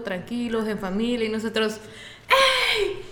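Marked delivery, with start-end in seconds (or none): 2.3-3.0 mucho más agudo, gritando de fiesta entre risas; llegada eufórica. Retold or imitated. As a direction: entra como si llegaras a la fiesta. (llegada eufórica y cantada a la fiesta)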